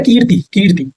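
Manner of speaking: कीर्ति with the "kee" held long; long ee in कीर्ति, short ending; drawn-out long ee. Shown as a demonstration. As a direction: stretch the first vowel of कीर्ति. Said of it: "थोड़ा खींच के बोलते हैं".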